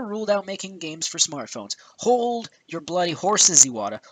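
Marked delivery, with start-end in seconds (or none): 2.0-4.0 exasperated interjection. Real, not acted. Cutting in on Iwata's claim, exasperated. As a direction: halt him with a slowed "Hold your bloody horses". Scolding the absent president.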